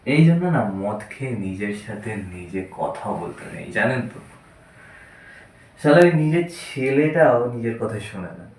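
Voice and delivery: put-on drunk playwright. Drunk man taunting a naked king, then muttering to himself, lightly drunk. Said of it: "নাট্যকারের কথোপকথন মদ্যপ অবস্থায়".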